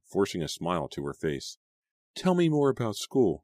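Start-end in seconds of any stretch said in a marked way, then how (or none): 2.1-3.4 forced cheerful urging; urging brightly. A narrator's reading. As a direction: push her gently with a forced smile. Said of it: "she urged".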